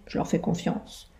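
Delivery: breathy unvoiced whisper. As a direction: whisper it as a secret. Sly closing confidence.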